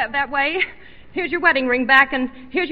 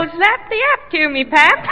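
mildly raised mock yell; retold yell; 3 semitones higher, 3 dB louder, slower than usual. Wife yells into her husband's ear trumpet, mock yell. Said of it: "And yell".

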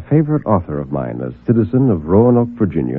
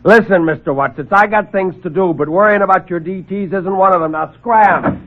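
irritated reporter; 9 semitones higher than usual. Acted. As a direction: snap and throw him out. Reporter throws him out.

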